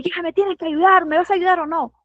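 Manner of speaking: reclamo agudo de paciente impaciente, levemente actuado; paciente molesto imitado. Retold or imitated. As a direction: exige ayuda con algo de enojo fingido. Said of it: "Llega y molesto". (el paciente enojado reclama a la enfermera, en tono molesto leve)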